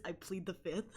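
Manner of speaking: giggling through the words; laughing. Real, not acted. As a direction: say it while cracking up. Quoting it while laughing.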